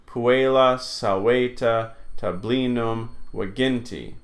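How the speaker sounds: "Puella, saweta, tablinum, wagenti" weighted on the next-to-last syllable; measured list "Puella, saweta, tablinum, wagenti"; penultimate stress. Shown as a demonstration. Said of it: "falls on the next to last syllable".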